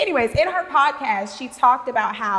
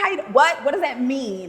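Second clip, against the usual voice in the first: mock phone chat; 10 semitones higher than usual. Acting out a fake-fine phone call.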